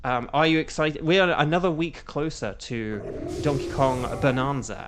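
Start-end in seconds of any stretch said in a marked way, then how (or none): 3.4-4.9 BONANZA said in the speaker's own accent; own-accent pronunciation. Real, not acted. Streamer greets viewer, another week closer, Bonanza in own accent. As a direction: lean into your accent on Bonanza. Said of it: "say in my accent".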